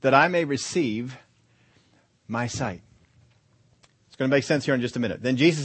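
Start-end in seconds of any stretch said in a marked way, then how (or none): 0.0-2.8 slow, weighted "I may receive"; deliberate phrasing. Shown as a demonstration. Preacher showing how the blind man asked, "receive" drawn out. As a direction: draw out "receive", pause before "my sight". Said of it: "Is that the way you would ask?".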